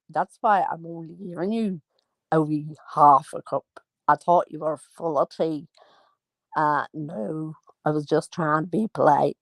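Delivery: lightly acted Northern Irish exchange; Northern Irish accent. Host and guest haggling over tea, light Northern Irish accent. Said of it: "I'm going northern".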